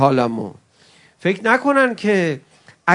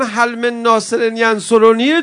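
slow, drawn-out call, a little louder; crying out; 2 semitones higher, 4 dB louder, slower than usual. Shown as a demonstration. Preacher to mourners, crying out the call slowly. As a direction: cry it out like a plea for help.

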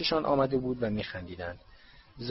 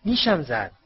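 high, raised cry of pain; shout; 6 semitones higher, 4 dB louder than usual. A narrator's reading. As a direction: yell out that you've been stung. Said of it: "دین تامس فریاد زد". (فریاد زدن)

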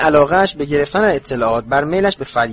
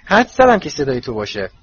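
bright, higher and louder hello; happy greeting; 5 semitones higher, 3 dB louder than usual. Acted. Ginny happily greeting Harry at the door, gladly raised voice. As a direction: greet him with glad surprise. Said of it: "با خوشحالی گفت".

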